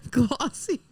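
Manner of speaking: breaking up with laughter on glossy; laughing. Real, not acted. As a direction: giggle out glossy, high and airy. Laughing while describing shirtless farmer.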